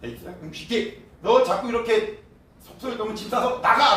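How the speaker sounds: high scolding that bursts loud on the last word; angry father throwing out his son; fed-up father. Retold or imitated. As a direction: tell him to pack up and get out. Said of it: "이렇게 말씀하고 있는 거예요".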